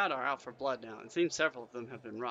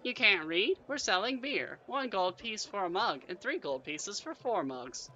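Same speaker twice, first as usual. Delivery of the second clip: high-pitched barmaid, slowing on the prices; half-goblin barmaid; 7 semitones higher, 4 dB louder, slower than usual. A narrator's reading. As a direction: explain it to a clueless customer in a high voice. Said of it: "sighs the half-goblin".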